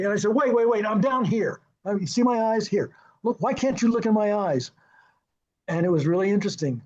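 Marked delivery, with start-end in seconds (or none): 0.3-4.7 higher-pitched, retold plea for attention; mild protest. Director to much taller actor who looks over his head, mild protest. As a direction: re-enact an insistent protest, a bit higher. Director pleading for eye contact.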